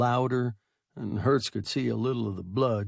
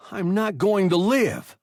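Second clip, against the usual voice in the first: higher, louder call after him; 9 semitones higher, 7 dB louder than usual. A narrator's reading. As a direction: call it out across the cabin. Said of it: "the boy called after Hertz".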